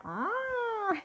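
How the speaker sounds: high, thin squeak of a squeezed cat; strangled cat squeal. Retold or imitated. Retelling the cat getting strangled, a high squeak. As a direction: squeak like a cat being squeezed too hard. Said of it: "And the cat's like".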